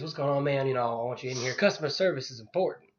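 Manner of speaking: a lightly put-on street accent, barely shifted from his own voice; imitating the seller's accent. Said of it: "if it sounds like I'm trying to do an accent, it's 'cause I am".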